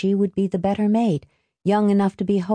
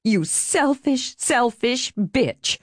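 slow, higher gasped insult; 6 semitones higher, much slower than usual. A narrator's reading. Marie seizing Helen's wrist, gasping slowly. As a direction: gasp it out, drawing the words long. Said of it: "she gasped".

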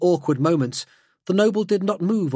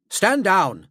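firm order; 4 semitones higher than usual. Acted. Drake orders Grek to back off.

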